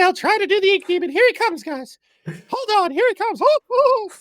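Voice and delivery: very high, strained demonic voice; Ink Demon voice. Pretend. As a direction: summon the inky demon, high and pressed. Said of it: "Can you make the, the Ink Demon voice".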